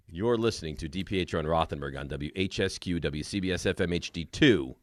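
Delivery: low, soft announcer delivery; station ID read. Acted. Host giving the legal ID after being interrupted, low announcer read.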